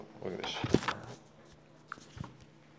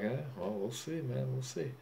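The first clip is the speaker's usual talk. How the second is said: put-on a heavy Ukrainian accent, a touch higher; mock Ukrainian accent; 5 semitones higher than usual. Boxer mimics Vitaly's Ukrainian accent, teasing him. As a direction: imitate Vitaly's thick Ukrainian accent, drawn out. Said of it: "This fucking Ukrainian accent was a super heavy accent".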